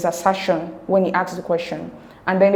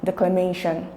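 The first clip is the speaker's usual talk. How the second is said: declaMAtion, more weight on "ma" than "de"; stress on MAY; 4 dB quieter than usual. Shown as a demonstration. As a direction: let "ma" carry declamation. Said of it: "stress is placed more in may than in de".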